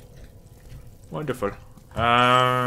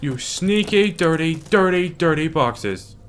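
high, drawn-out mock scolding; 5 semitones higher, slower than usual. Player berating the sneaky boxes blocking the path, mock scolding. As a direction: scold them with slow, stretched-out relish.

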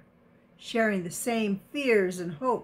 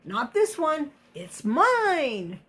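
defiant; 5 semitones higher than usual. Acted. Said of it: "croaked defiantly".

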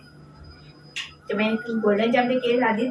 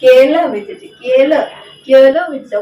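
insistent loud telling-off; 8 dB louder than usual. Real, not acted. Insisting to pet, louder.

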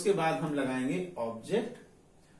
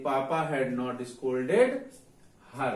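slow dictation; much slower than usual. Shown as a demonstration. Teacher dictating the English sentence.

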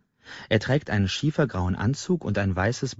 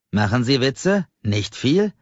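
indignant scoff; 5 semitones higher, 4 dB louder, slower than usual. Acted. Angry customer scoffs at clerk.

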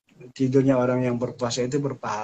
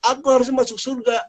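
higher, louder insistent protest; indignant protest; 10 semitones higher, 4 dB louder than usual. Acted. Sinner protests to the angel that he deserves heaven. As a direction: insist you belong in heaven.

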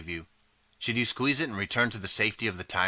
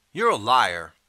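loud accusing yell; angry shout of liar; 2 semitones higher, 7 dB louder, slower than usual. A narrator's reading. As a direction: call him out in front of everyone. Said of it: "another voice shouts".

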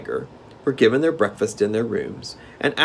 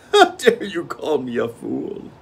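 high, slow, louder indignant king; enraged king; 7 semitones higher, 5 dB louder than usual. Acted. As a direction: hurl the question back in outrage. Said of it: "so enraged a voice".

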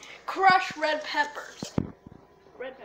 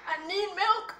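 burned tongue; 4 semitones higher than usual. Real, not acted. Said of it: "My tongue is burning".

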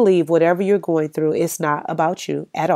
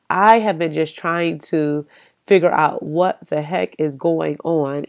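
ordinary talk

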